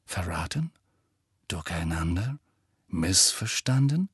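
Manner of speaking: lightly voiced reporter, prompting with each question; prying reporter. A narrator's reading.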